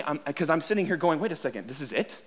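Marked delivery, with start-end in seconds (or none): 1.2-2.2 confused. Retold or imitated. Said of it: "this has always really confused me".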